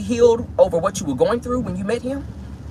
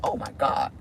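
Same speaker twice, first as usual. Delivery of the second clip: giddy. Retold or imitated. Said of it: "And they be like".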